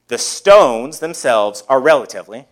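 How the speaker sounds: "relatively" leaned on with emphasis; stress on relatively. Real, not acted. Preacher qualifying the stones for the congregation, stress on "relatively". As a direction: set "relatively" apart with deliberate emphasis. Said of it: "emphasis on relatively".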